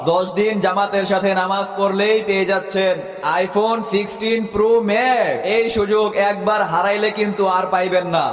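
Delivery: mosque loudspeaker announcement; through a megaphone. Acted. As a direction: call the offer out over the mic. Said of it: "কি রে, mic দিয়া কি বলে".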